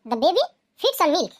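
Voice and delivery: very slow, word by word for students to copy; slow dictation. Shown as a demonstration. Teacher reading an example to students, very slow and deliberate. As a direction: spell it out slowly like dictating to a class. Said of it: "teacher dictates example sentence".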